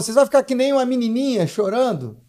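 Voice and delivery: chiding question, imitating mom; retold scolding. Mother scolds her crying son.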